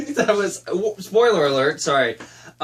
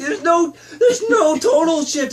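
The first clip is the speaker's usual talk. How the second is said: high, loud laughing whine; laughing cry; 12 semitones higher, 4 dB louder, slower than usual. Real, not acted. Mocking the film's missing tonal shift, laughing. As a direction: laugh through the words. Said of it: "laughing complaint".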